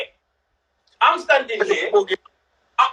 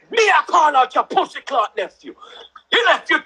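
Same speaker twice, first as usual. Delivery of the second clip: higher retold shout, slowing on the last line; angry retort; 4 semitones higher than usual. Nan answering the auntie on the block, higher angry shout. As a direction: hit back hard like a furious nan.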